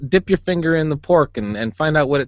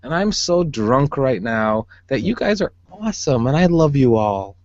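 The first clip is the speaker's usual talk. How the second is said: put-on stereotypical drunk guy. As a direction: play the mushy drunk guy. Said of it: "does that really sound like the stereotypical drunk guy".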